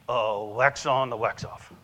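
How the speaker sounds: lightly voiced Mr. Miyagi-style mentor, slow; a hint of a movie karate master, unhurried; Karate Kid master. Mentor quoting The Karate Kid to the salesman, lightly voiced master. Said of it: "so that was from The Karate Kid".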